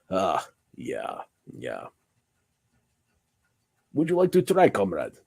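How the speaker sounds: mock Russian comrade voice; Russian accent. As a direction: play a Russian dragon making an offer, Russian accent. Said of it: "Did I not hold my Russian accent".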